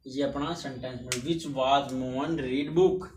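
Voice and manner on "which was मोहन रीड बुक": slow read-out. Shown as a demonstration. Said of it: "ठीक है".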